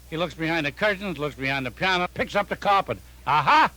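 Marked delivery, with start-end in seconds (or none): 3.3-3.7 triumphant discovery. Retold or imitated. Finds the bug under carpet.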